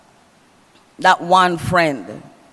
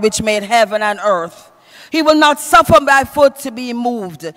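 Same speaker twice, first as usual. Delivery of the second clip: declaimed scripture reading, pitched up a little; ringing psalm recitation from the pulpit; preach; 3 semitones higher than usual. Acted. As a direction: proclaim the psalm to a congregation. Reads Psalm aloud in preaching voice.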